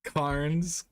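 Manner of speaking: Cairns with an r, as KARNZ, questioning; unsure pronunciation. Shown as a demonstration. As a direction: try Cairns as KARNZ, asking. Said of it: "how do you say".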